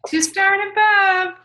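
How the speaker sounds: high, loud excited squeal of words; real excitement. Real, not acted. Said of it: "Sorry, I got excited".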